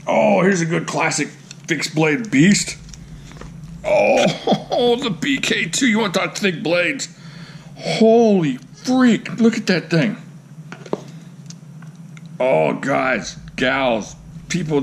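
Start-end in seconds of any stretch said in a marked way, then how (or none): 3.8-7.1 high-pitched laughing excitement; giddy, high reveal with a laugh; gleeful awe. Real, not acted. Gleeful reveal of thick knife. 7.8-10.2 high, drawn-out amazement; stretched-out, high-pitched awe; awestruck excitement. Real, not acted. Awed at the thick blade.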